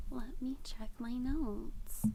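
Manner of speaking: breathy aside; slow stage whisper to self; hushed aside. Real, not acted. Aside to viewers mid-recap.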